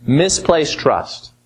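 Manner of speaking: very slow, misplaced pressed; misplaced punched, trust falling; stress on misplaced. Acted. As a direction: spell out misplaced trust slowly. Slowed emphatic repeat.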